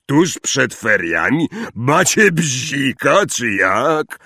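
incredulous, drawn-out questioning; surprised. A narrator's reading. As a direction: ask as if they've gone mad. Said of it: "zdziwił się Hagrid". (z niedowierzaniem, przeciągle)

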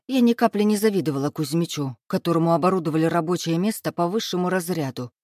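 plain reading voice

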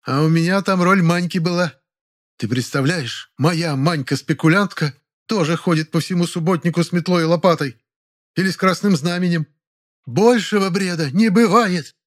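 high, venomous sarcasm. Acted. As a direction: drip poison on every word. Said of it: "продолжила ядовитым голосом".

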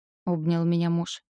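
plain reading voice

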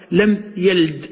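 لم يلد with the lam of يلد left vowelless, said lam yald; silenced lam. Shown as a demonstration. Teacher showing students the form with a still lam. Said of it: "يبقى تسكن اللام".

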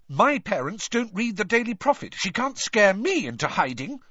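high, heated defiance; in a rage. A narrator's reading. Hermione striding off, defying the reporter, enraged. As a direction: brush off the threat angrily. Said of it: "in a rage like this".

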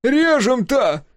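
very high, drawn-out wail; loud, high howl of protest; anguished yell. A narrator's reading. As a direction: cry out in outrage, slow and loud. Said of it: "завопил он так громко".

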